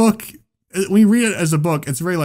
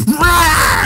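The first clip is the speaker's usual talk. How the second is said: sudden high loud roar; stage god's roar; 12 semitones higher, 5 dB louder than usual. Retold or imitated. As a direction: roar it to scare the crowd. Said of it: "he goes".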